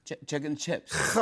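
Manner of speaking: hesitant, slow Liverpool imitation; Liverpool accent attempt. Shown as a demonstration. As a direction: slowly try a Scouse accent. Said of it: "All right, Liverpool".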